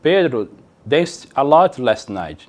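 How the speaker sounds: very slow, careful English; slow model sentence. Shown as a demonstration. Teacher reads example sentence slowly to class. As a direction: spell it out slowly for learners. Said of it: "Vejamos o exemplo".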